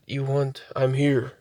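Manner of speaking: soft, lightly voiced Native American imitation; imitated Native American voice. Repeating the voice she heard that night, softly imitated. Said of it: "It was more of a Native American Indian voice".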